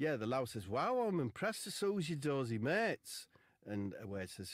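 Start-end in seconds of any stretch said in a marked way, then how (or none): 0.7-3.3 lass's voice. Retold or imitated. Lass voiced.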